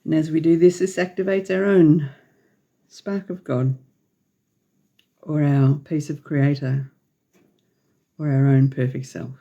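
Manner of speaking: measured meditation lead with long pauses; unhurried phrases spaced out for breathing; guided meditation. Real, not acted. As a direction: guide listeners gently through breaths, leaving long silences.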